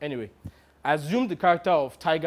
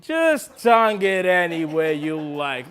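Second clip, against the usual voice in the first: drawn-out, slow dismissal; impatient interruption; 3 dB louder, slower than usual. Acted. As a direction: cut the actor off, dragging the words. Impatient colleague cuts the actor off.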